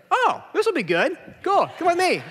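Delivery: high, eager, gleeful; light up at a gory case; nurse perks up. Retold or imitated. Bored nurse suddenly eager about a table saw injury. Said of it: "his demeanor changes".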